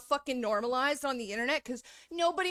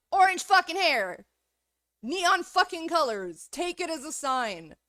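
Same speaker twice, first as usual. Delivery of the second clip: higher and much louder, punching every word; loud declaration; 5 semitones higher, 5 dB louder than usual. Real, not acted. Telling critics her orange hair is a warning, shouted. Rant about warning colors.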